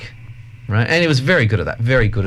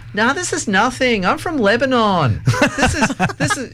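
voicing the unfazed Lebanese lady, pitched up; 12 semitones higher than usual. Speaker quotes the chemist shop lady to his hosts, amused and pitched high. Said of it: "And she goes".

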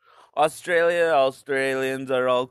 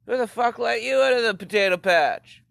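mock Irish taunt; 8 semitones higher, 4 dB louder than usual. Mocking an Irish person.

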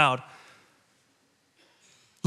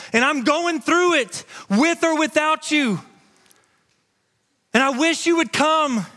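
raised, ringing preacher's voice; full-force preaching; 4 semitones higher than usual. Acted. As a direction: preach it out to the whole room. Preaching the narrow gate.

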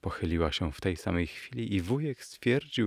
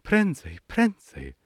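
put-on young lady's cry; 10 semitones higher, slower than usual. A narrator's reading. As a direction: urge the driver on in a high voice. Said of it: "krzyk młodej damy". (wysoki, ponaglający okrzyk damy)

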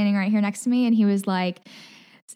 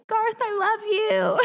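high, slow fangirl yell; 12 semitones higher, slower than usual. Retold or imitated. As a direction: call it out after him.

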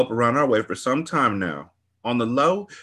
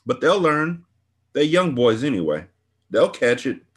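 excited gossip; 5 semitones higher than usual. Acted. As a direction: ramble on like it's a big fight. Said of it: "She acted excited".

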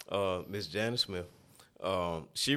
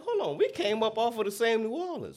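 higher, laughing protest; amused protest; 12 semitones higher than usual. Retold or imitated. Answering the worried elders, higher and laughing. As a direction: laugh it off in disbelief. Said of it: "I'm like".

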